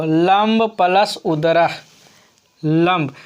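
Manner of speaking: teacher reading लंब प्लस उदरा slowly, each part apart; slow, spelled-out. Shown as a demonstration. Teacher to students, repeating the sum slowly. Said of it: "क्या बोलेंगे इसको?".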